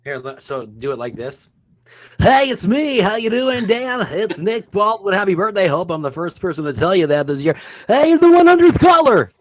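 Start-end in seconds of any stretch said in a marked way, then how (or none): 2.2-7.5 loud, high radio announcer. Shown as a demonstration. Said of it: "No, so not like that?". 7.9-9.3 high, loud contest DJ shout; radio DJ voice. Shown as a demonstration. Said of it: "No, so not like that?".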